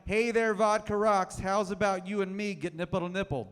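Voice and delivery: lightly repeated smarmy come-on; a touch of a sleazy barfly; understated mock flirt; cheesy pickup line. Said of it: "You heard that right".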